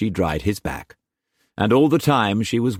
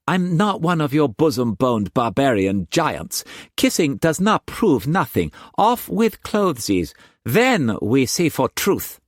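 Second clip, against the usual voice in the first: Mei Mei's voice; 8 semitones higher than usual. A narrator's reading. Mistress teasing Struan in bed, high playful voice. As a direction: tease him in a high bright voice.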